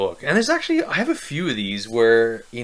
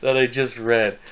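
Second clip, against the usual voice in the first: much higher, very slow stunned disbelief; incredulous disbelief; 5 semitones higher, much slower than usual. Retold or imitated. After reading the book, stunned and baffled. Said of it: "I was like".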